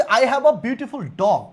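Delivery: each word stretched out very slowly; slow model sentence. Shown as a demonstration. Teacher dictating the example sentence to the class, very slowly. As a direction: dictate it so students catch every word. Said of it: "আমি কি বললাম?".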